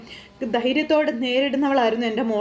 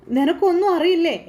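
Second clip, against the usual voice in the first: higher-pitched challenge; reproachful question; 6 semitones higher, 4 dB louder than usual. Acted. Mother asking her son if he knows nothing, reproachful. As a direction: confront him with a raised, pressing question.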